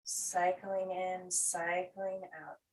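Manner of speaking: calm, rolling meditation guidance; guided breathing. Acted. Teacher letting the breath move like the tide, guided breathing. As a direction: let the phrases roll gently with pauses between.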